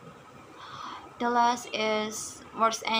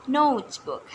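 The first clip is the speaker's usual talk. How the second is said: notebook with the stress on NOTE; notebook, falling away after NOTE; stress on first term; 3 semitones higher than usual. Shown as a demonstration. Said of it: "stress placement is in the first term".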